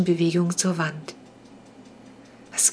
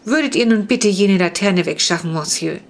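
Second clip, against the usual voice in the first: polite but firm, a touch louder; insist, courtesy wearing thin; the being ordering the boy to move the lamp; firm command; 3 dB louder than usual. Acted. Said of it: "befahl die Gestalt in sehr bestimmendem Ton".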